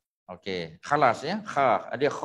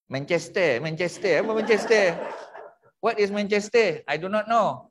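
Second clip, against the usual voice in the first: meniru orang putih yang keliru; tanya dengan nada tinggi keliru; 4 semitones higher than usual. Retold or imitated. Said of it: "siapa tu yang sebut". (lakonan ringan orang putih yang bingung)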